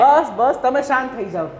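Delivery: loud, urgent calls to stop; calling out to stop. Acted. Elder calms a family quarrel. (ઝઘડો અટકાવવા ઊંચા અવાજે બૂમ)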